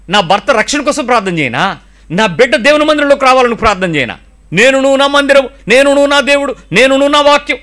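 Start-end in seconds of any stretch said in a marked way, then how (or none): 4.5-7.6 rising declaration. Acted. Preacher declaring the vow.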